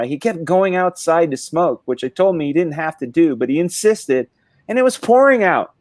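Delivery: mother-in-law voice. Acted. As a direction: voice a baffled relative, building to the punchline.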